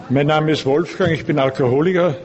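ordinary talk

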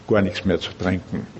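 normal talking voice

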